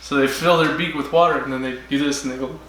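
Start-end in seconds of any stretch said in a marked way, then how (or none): 2.2-2.7 bird impression. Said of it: "That's my impression of a bird".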